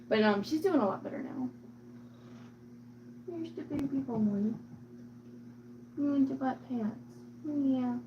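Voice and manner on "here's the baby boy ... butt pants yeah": higher-pitched doting coo; real affectionate cat talk; cooing pet talk. Real, not acted.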